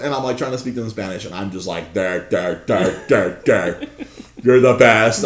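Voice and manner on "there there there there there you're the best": starstruck fumbling. Retold or imitated. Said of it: "I can't even get it out".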